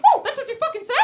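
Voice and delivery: mock her back like an unhinged puppet; strange puppet voice. Boyfriend echoing her swearing in a strange puppet voice. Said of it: "really strange puppet voice".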